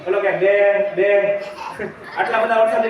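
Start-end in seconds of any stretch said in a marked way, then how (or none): 0.3-1.4 slow drawn-out sheep bleat. Acted. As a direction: draw out each બે like a lamb. Lion cub bleats like sheep.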